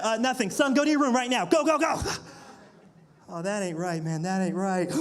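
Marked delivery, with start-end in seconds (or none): 0.1-2.0 building, louder, flustered orders; flustered dad. Retold or imitated. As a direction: hustle the kid out. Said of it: "start asking questions".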